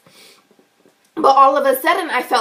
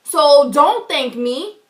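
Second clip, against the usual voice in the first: high, loud confrontation; retelling confronting the teller, high and loud; indignant retort; 6 semitones higher, 4 dB louder than usual. Retold or imitated. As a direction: throw her thanks back at her, higher. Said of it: "I turned around and I said".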